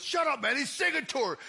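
put-on gossip voice; mock astonished onlooker. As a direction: blurt it like a stunned bystander. Acted onlookers reacting to the serenade.

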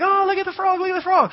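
put-on high, eager kids' voices; excited kids. Kids crowding round the frog, high and excited.

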